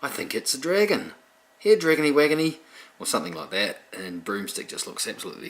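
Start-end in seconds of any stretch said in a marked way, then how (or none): 0.0-2.6 put-on high, loud baby-talk coo; goofy witch voice. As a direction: call to the baby dragon sweetly. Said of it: "Witch is going".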